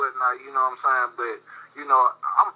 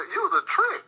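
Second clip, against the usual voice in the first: mocking scorn. Real, not acted. Mocking strip club spenders.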